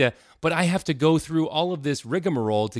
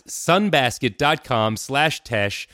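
deliberate announcer pace on the web address; slow ad URL read; much slower than usual. Acted. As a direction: spell the address out slowly, each part apart.

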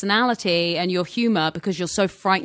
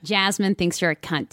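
as Jasmine. Shown as a demonstration. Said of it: "and then as Jasmine".

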